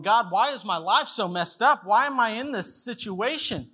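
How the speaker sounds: mild mock-anguished plea; complaining to God. Preacher voices believers questioning God over a messed-up life, complaining. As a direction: plead with rising pitch in exasperation.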